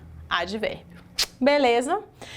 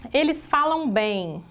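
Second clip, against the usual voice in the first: slow dictation; 3 semitones higher, slower than usual. Shown as a demonstration. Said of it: "teacher dictates the example sentence".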